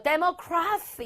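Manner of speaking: 데모크라시 with a drawn-out "KRA-see" ending; correct pronunciation. Shown as a demonstration. Teacher repeats the reading for students, correct pronunciation. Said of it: "이렇게 읽어야 됩니다".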